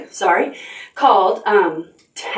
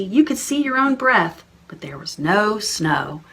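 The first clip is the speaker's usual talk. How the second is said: put-on story reading for children. Reading a picture book aloud.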